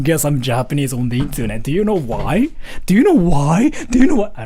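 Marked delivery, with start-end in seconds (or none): 1.6-4.3 escalating demand. Acted. Streamer pressing viewers on why nobody believes him, escalating demand. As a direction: build to an insistent, raised-voice question. Mock-exasperated escalating repeated question.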